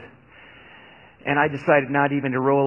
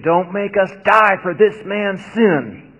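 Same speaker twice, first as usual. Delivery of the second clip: earnest pleading; 6 semitones higher, 4 dB louder than usual. A narrator's reading. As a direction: beg not to be blamed. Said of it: "they pleaded".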